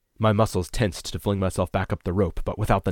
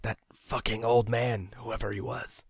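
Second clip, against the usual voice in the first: slow, fading, higher-voiced rant; delusional rant; 5 semitones higher, 4 dB quieter than usual. A narrator's reading. Delirious man rants about the old man, slow and fading. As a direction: rant weakly as if half-dreaming. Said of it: "I let him rant".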